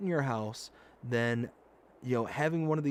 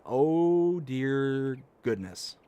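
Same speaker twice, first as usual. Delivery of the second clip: slow dismay; much slower than usual. Retold or imitated. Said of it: "and I'm like".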